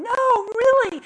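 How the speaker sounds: high, loud, slow incredulous cry; can't believe it, pleading; disbelieving kids. Retold or imitated. Boys shout down in disbelief to their mom, high and loud. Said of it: "they were going".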